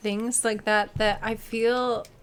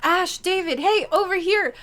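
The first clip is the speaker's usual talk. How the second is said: high, louder mock call; 8 semitones higher, 6 dB louder than usual. Fan calling to the streamers at Gen Con, high mock call. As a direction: call across a crowd. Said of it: "he shouts out".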